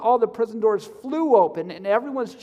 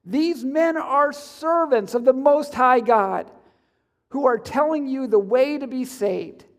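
raised, slow proclaiming voice; shouting slave girl; 4 semitones higher, 4 dB louder than usual. Acted. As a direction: call it out slowly to the crowd. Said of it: "She followed Paul and the rest of shouting".

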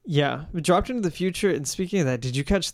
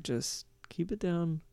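softly voiced imitation of discreet crowd control; quietly defuse it, keeping others from hearing; discreet hushing; 2 semitones higher, 6 dB quieter than usual. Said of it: "he's kinda running defense here, like, crowd control".

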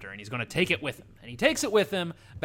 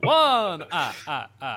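the Count; 3 dB louder, slower than usual. Pretend. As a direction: count it out like Count von Count with a cackle. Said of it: "historical home of the Count".

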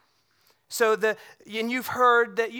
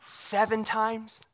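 drawn-out wondering seven times; slow musing question; 3 dB quieter, much slower than usual. Retold or imitated. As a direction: stretch "Seven times" slowly, pondering. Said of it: "and he goes".

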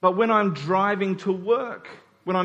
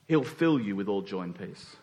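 soft blessing; 10 semitones lower, 5 dB quieter than usual. Acted. Quoting blessing softly.

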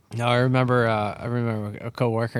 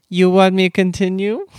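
put-on loud, higher Asian-accented offer, rising at the end; 9 semitones higher, 12 dB louder than usual. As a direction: mistakenly do the Jamaican woman in an Asian accent. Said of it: "I just went to an Asian accent".

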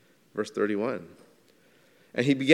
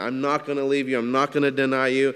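quicker, mildly forceful protest; emphatic insistence; 3 semitones higher, 4 dB louder, faster than usual. Acted. Peter protesting to Jesus he won't leave him, emphatic. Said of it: "Peter said emphatically".

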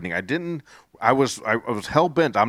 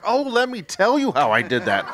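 a laughing reply, pitched up and louder; 8 semitones higher, 5 dB louder than usual. Retold or imitated. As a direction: answer with a happy laugh in the voice. Cashier answers about her hair.

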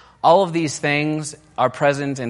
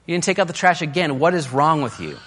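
higher, pointed scolding; mock exasperated accusation; 6 semitones higher, 3 dB louder than usual. Wife scolding husband about the trash, mock exasperated. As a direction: nag the spouse about the trash. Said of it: "any complaint that ends with".

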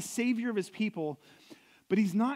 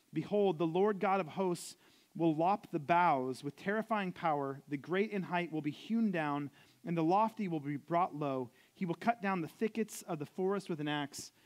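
scripture reading. Acted. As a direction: read the verse like a lectern reading. Reads Isaiah ten aloud.

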